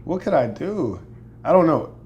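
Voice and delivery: high, loud, laughing protest; flustered surprise. Real, not acted. Asked to perform for viewers, flustered high laughing protest. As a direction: caught off guard, squeal it out.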